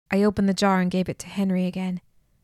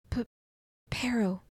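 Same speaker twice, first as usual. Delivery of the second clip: sputtered; 3 semitones higher, 5 dB quieter than usual. A narrator's reading. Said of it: "Sam sputtered".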